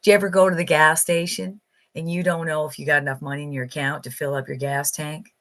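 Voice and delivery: imitated Southern US accent, a little quick. Buddy from Alabama on money worries, imitated Southern accent. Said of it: "really strong Southern accent and talks like this".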